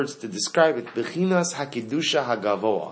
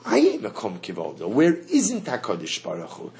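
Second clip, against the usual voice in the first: lower, settled Aye Mekom Kivodo; declarative answer; 4 semitones lower than usual. Shown as a demonstration. Teacher voicing the answer, lower and settled. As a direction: state it calmly down low. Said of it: "And then, of course".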